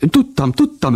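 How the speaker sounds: overjoyed. Acted. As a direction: shriek it with delight. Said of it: "örült Vacska Mati".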